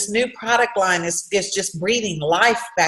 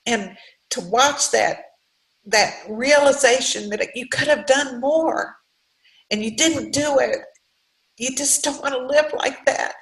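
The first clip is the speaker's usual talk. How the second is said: getting emotional; 5 semitones higher than usual. Real, not acted. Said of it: "I'm sorry for getting emotional".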